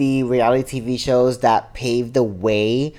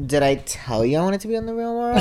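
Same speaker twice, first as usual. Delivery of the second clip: laughing disbelief; 6 semitones higher, 3 dB quieter, faster than usual. Retold or imitated. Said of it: "and I'm like".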